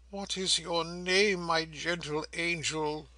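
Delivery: slow, high, tender question; softened tone. A narrator's reading. Prisoner asks the young woman her name, softened. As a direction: ease into gentle wonder, drawing out the words. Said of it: "Hailing his softened tone and manner".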